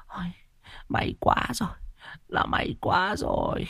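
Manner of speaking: put-on soft, hushed old woman's lament; sighing grandmother. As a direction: sigh it out with relief. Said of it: "vuốt tay lên ngực mà than".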